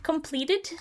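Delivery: mock-cute Swedish lilt, rising; cute Swedish accent. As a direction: imitate a little cute boy's Swedish accent. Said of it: "that Swedish little, little cute boy accent".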